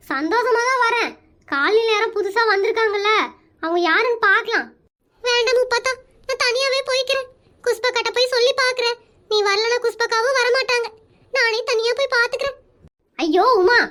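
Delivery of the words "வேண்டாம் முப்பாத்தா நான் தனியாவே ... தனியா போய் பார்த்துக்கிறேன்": mildly tearful sulk, put on; subdued mock-weepy refusal; fake crying. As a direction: play the hurt martyr with a touch of sham tears. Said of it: "முத அழுகிறத நிறுத்து".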